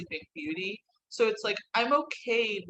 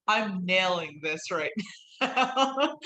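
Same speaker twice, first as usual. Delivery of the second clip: laughing mock confidence; slower than usual. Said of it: "she's like".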